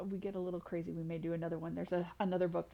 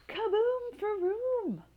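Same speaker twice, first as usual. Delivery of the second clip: much higher, louder, slow booming blast; explosive kaboom; 13 semitones higher, 6 dB louder, much slower than usual. Acted. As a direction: make it a big explosion. Dragon explosion sound.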